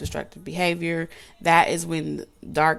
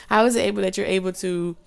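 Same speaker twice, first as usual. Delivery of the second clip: tongue-tied stumble. Real, not acted. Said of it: "See, I can't even talk".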